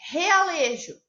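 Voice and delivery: "Realejo" opening on a strong h-like R; teacher's clear demo of the hard R in "Realejo"; strong initial R. Shown as a demonstration. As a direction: sound out "Realejo" with a strong first R. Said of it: "Parece que o R tem um som forte".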